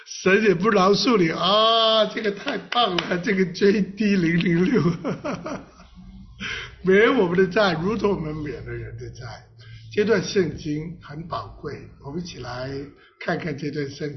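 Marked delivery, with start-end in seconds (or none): 0.1-8.0 emphatic preaching shout. Real, not acted. Preacher exclaims at full force.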